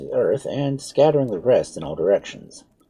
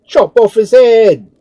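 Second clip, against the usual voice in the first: loudest, high, slow scream; 15 dB louder, slower than usual. A narrator's reading. Third soldier calling for execution, screaming. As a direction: shriek for his head. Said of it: "screamed the third".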